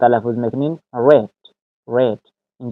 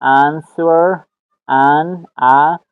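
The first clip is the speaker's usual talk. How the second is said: "آنسور" mit flachem amerikanischem A, slow; American "آنسور", short flat vowel; American accent; 3 semitones higher, 3 dB louder, much slower than usual. Shown as a demonstration. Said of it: "همونطور امریکن".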